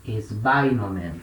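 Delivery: "Esbainomen" bem devagar, sílaba por sílaba, tônica em "bai"; pronúncia grega lenta. Shown as a demonstration. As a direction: soletre "Esbainomen" lentamente, tom baixo. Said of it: "Então, vai virar". (professor dita "Esbainomen" devagar para os alunos copiarem)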